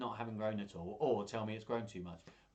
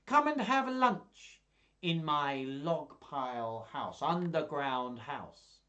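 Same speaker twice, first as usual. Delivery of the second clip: much higher, louder, slow coaxing fox; sly fox; 3 semitones higher, 5 dB louder, much slower than usual. Acted. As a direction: lure the mouse in sweetly. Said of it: "do all the voices".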